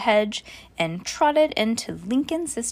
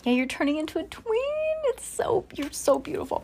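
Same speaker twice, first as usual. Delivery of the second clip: doting coo; 7 semitones higher, 4 dB quieter, faster than usual. Real, not acted. Mother cooing over daughter.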